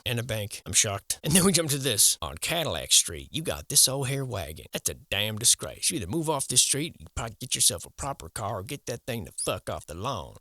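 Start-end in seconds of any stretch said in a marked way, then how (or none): 5.9-10.4 HOA impression. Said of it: "That's my impression of the H O A".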